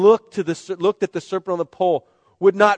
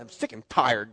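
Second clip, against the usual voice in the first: weary moan; 7 semitones lower, 5 dB quieter than usual. Retold or imitated. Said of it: "You ever been like".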